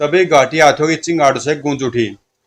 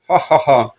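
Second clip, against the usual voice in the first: crazed laughter; slower than usual. Acted. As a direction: laugh like a madwoman but understated. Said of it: "पागलों की तरह ठाका लगाकर हंस पड़ी". (हल्की पागलों जैसी हँसी)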